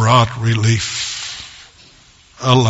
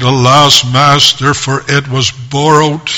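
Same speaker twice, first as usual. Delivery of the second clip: retold cry of alarm. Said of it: "And he cried and said".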